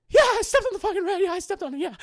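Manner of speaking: high, loud, fast annoyed yeah; a priest cornered and fed up, loud; exasperated yell. Retold or imitated. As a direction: snap it out fed up.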